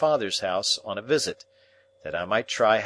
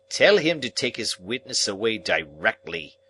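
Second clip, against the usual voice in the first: disgusted; 3 dB louder than usual. Acted. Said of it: "in extreme disgust".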